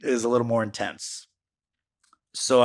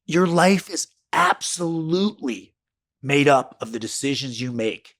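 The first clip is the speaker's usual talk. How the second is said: slow, drawn-out statement; 3 semitones higher than usual. Shown as a demonstration. Podcaster stating his life lesson to listeners, slow and drawn out. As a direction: lay it out slowly so it sinks in. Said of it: "Hear that again".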